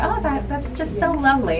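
touched. Retold or imitated. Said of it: "And I thought".

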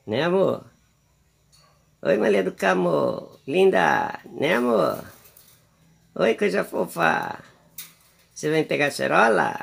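high, sing-song coaxing of a pet bird; pet baby talk. Acted. Owner coaxing her pet bird Maria do Carmo to eat, cooing. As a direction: coo sweetly at the little bird.

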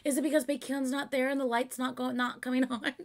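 high-pitched amused lament; sympathetic fan whine. Real, not acted. Fan pitying singer whose light fails, high whine.

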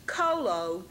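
colo as KOH-loh, slowly; pronunciation demo. Shown as a demonstration. Teacher keeping two spellings apart for students, colo slowly demonstrated. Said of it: "I will say".

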